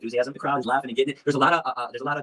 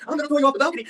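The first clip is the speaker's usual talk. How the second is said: high-pitched worked-up threat; heated, high voice, replaying a threat; retold threat; faster than usual. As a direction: act out threatening someone in a scuffle. Retold threat during fight.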